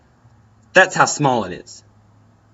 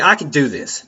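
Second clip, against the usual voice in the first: firm and a bit louder, falling at the end; authoritative; 2 semitones higher, 3 dB louder than usual. Shown as a demonstration. Showing the right way to psych up, with authority. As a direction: state it like an order to yourself. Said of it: "authoritative tone in your voice".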